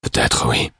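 lightly voiced tired man; weary admission. A narrator's reading. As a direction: give in with a tired breath.

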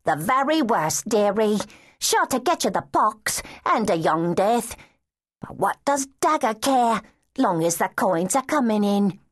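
a lightly voiced bitter street girl. Street girl warning the child about the worst job, lightly bitter.

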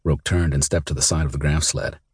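ordinary delivery

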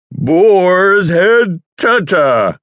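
slurred announcer. Shown as a demonstration. Exhausted by endless takes, a slow garbled announcer read. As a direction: let the words fall apart. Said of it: "I was barely intelligible at this point".

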